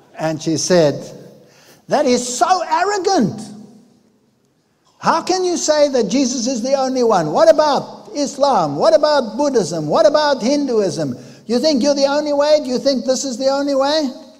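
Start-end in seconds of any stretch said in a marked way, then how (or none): 1.9-14.1 put-on high, screaming voice. Retelling how a woman in the audience screamed at the speaker: imitating a screaming woman. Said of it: "she screamed at me from the audience".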